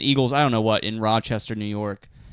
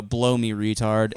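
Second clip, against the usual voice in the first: deadpan comeback; 4 semitones lower, slower than usual. Retold or imitated. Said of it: "you just lean in, you go".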